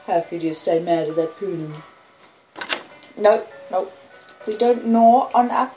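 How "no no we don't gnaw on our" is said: normal talking voice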